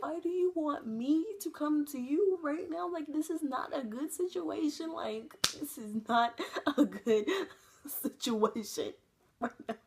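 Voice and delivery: high, slow, laughing through the words; laughing alarm. Retold or imitated. Refusing the guys' call, high nervous laughing protest. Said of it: "I was like".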